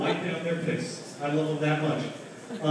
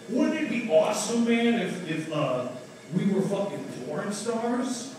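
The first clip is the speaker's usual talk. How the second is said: higher, excited dude voice; Seth Rogen stoner pitch; 3 semitones higher than usual. Retold or imitated. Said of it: "some impressions here".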